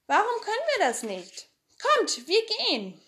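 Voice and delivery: put-on high, keen boy's voice; eager Tommy. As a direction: rush the others out the door.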